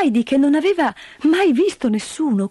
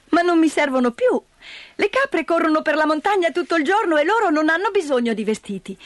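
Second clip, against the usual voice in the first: put-on high, lively child voice; little girl; 7 semitones higher than usual. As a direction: explain it with a child's logic. Heidi's child voice.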